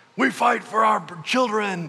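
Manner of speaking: loud rallying yell, pitched high. Retelling a man in face paint rallying everybody, imitating him yelling. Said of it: "he starts yelling".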